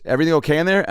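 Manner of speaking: high, sing-song check-in; mock stewardess knocking on the door; flight attendant. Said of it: "she goes".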